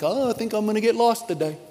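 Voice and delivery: chirpy high sheep, cheerful and clueless; a bright, mock-innocent sheep; silly sheep voice. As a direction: play a dopey sheep waving goodbye.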